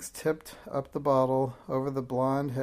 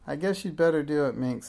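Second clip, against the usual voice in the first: brave; 2 semitones higher, 4 dB louder than usual. Acted. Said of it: "as bravely as she could".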